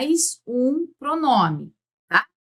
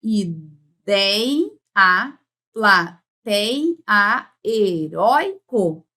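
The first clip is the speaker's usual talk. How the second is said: "Ideia, plateia, heróico" slowly, holding "dei", "tei", "rói"; teacher stretching the tonic syllable in "Ideia, plateia, heróico"; stressed syllable shown; 2 semitones lower, much slower than usual. Shown as a demonstration. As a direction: break "Ideia, plateia, heróico" into syllables, leaning on the open diphthong. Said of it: "a sílaba tônica é essa daqui".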